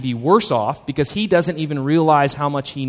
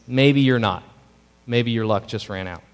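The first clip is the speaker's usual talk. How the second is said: gentle sad reply; 4 semitones lower than usual. Acted. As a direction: let him down gently and sadly. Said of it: "with a sad smile, gently pushes".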